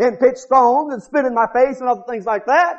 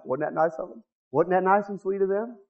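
sarcastic; 6 dB quieter than usual. Acted. Mocking the insulting Catholics.

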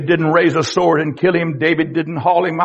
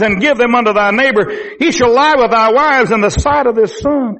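forceful scripture reading; 6 semitones higher, 5 dB louder than usual. Real, not acted. Preacher reading the Lord's word to David, forceful scripture declamation. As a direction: declaim it as God's pronouncement.

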